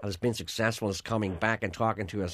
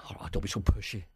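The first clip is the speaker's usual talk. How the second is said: hushed aside; 2 semitones lower than usual. Pretend. Mock aside to an insistent guest.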